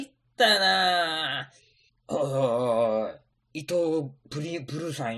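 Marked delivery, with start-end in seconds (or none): 2.1-3.1 excited. Acted. Excited cry at money news.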